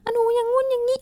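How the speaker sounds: put-on sweet squeaky voice for a baby or pet; cutesy high voice. Shown as a demonstration. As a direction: coo like you're talking to a cute puppy. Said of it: "เสียงสองก็มา".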